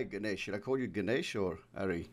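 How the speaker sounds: ordinary talk, nothing marked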